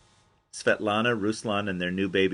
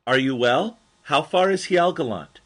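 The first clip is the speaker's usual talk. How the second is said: carefully spoken foreign phrases; 7 semitones higher, 7 dB louder than usual. Retold or imitated. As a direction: spell it out for a rider who may not understand. Narrator asks rider in Mongolian.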